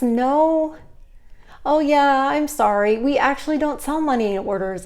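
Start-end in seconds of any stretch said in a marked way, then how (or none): 1.6-4.9 higher, louder, apologetic customer-service voice; polite apology. Shown as a demonstration. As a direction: sound genuinely sorry for the customer. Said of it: "that's what I would have said".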